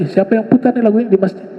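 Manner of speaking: a teacher catching someone red-handed; annoyed teacher. Retold or imitated. Teacher angrily confronts song player. (guru yang marah menegur)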